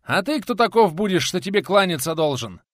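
teacher shouting back at an unseen robber, loud and defiant; shouted into the dark. Acted. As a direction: call out defiantly into the gloom. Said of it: "крикнул в полутьму".

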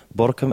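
"Borkum" said clearly, with an r and a k, not "Bochum"; correct pronunciation. Shown as a demonstration. Correcting Jan over the radio: "Borkum" said carefully. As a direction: spell out "Borkum" slowly and carefully. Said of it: "dat het eiland naast jou Borkum heet en niet Bochum".

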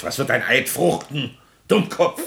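wütend aufbrausend, Dummkopf laut und hoch geschrien; zornig. Acted. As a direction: den Sekretär verärgert anschnauzen. Präsident fährt Wurm an. (der Präsident schreit seinen Sekretär wütend an)

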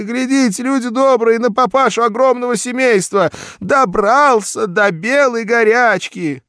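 high, loud shrieking scold; shrieking wife. A narrator's reading. Marya shrieks at her husband over his wizard, loud and high. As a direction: screech at the drunk husband.

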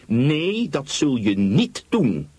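mildly fierce, firm no. Acted. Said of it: "zei ze fel". (fel en beslist geweigerd, iets hoger)

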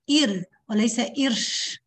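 إر voiced, then إرش with a hiss of air; right vs airy ra. Shown as a demonstration. Teacher contrasts the correct and breathy ra. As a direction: contrast a voiced ra with a hissing one. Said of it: "لا تدفعي هواء".

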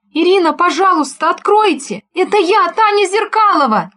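high, loud, panicked begging through a door; panicked plea. Acted. Frightened neighbour begging Irina to open the door, high and panicked. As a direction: beg to be let in, in a panic. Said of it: "в котором явственно ощущалась паника".

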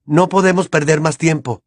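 Harry yelling at Hermione to hurry; a mild urgent yell; shout. Acted. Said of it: "gritó Harry".

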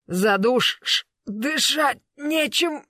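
choked, strained and slow; hoarse wheeze. A narrator's reading. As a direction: gasp it out while being strangled. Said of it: "хрипел Тигран". (хрип сквозь удушье)

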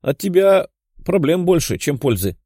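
high laughing jab. A narrator's reading. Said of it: "рассмеялась Даша".

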